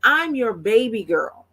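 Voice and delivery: put-on high-pitched toddler correcting grandma; little granddaughter. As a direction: play a small child firmly setting grandma straight. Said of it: "when she started talking, she says".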